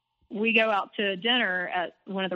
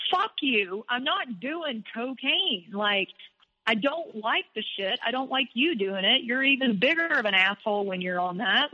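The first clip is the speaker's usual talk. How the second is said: mildly indignant retelling, pitch lifting on key words; retold quarrel; 3 semitones higher than usual. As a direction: replay an angry refusal, mildly heated. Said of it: "we got in this huge fight".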